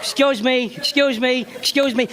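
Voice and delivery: menacing Italian father, lightly voiced; slow tough-guy warning; mild De Niro-style threat; gruff father-in-law. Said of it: "He said everything three times".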